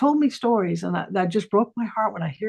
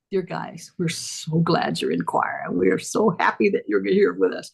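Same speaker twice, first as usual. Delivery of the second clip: mock pledge. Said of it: "I'd make the girls".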